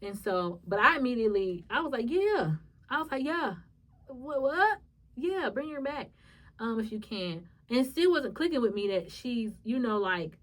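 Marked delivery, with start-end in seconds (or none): 2.1-2.6 higher, louder retold "yeah"; immediate yes. Daughter answering the doctor at once, eager. 3.2-7.5 higher-pitched, insistent reply; eager yes. Retold or imitated. Daughter asking doctors to bring mom back, eager.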